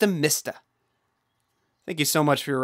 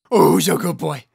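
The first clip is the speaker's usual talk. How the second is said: squeaky praising a dog; 8 dB louder than usual. Acted. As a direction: coo at a good dog. Praising the pet.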